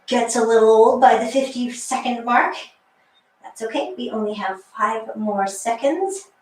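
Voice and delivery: shaky, strained wobbly voice. Real, not acted. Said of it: "You hear my wobbly voice?".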